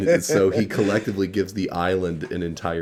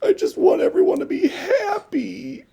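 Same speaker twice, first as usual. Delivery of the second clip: higher, louder earnest little engine gushing; Booster speech; 6 semitones higher, 5 dB louder than usual. Acted. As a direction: gush sincerely to the gang.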